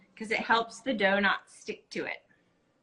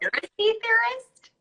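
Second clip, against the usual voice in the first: much higher, incredulous teasing question; a much higher teasing squeak of disbelief; teasing surprise; 7 dB louder than usual. Real, not acted. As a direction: poke fun with mock disbelief.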